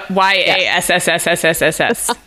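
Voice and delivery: YASSSS with a long hissed s at the end; drawn-out s like a snake. Retold or imitated. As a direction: stretch the s of YASS into a hiss. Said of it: "It was a one word".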